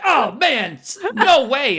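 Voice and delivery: high, loud, drawn-out disbelief; mock dismay. Moviegoer seeing the monster's still there, mock dismay. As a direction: act the guy who can't believe it's still going.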